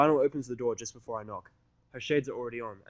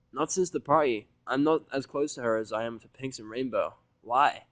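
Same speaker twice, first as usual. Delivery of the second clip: curious Vinyl; 2 semitones higher, 5 dB louder than usual. Acted. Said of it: "sounding curious".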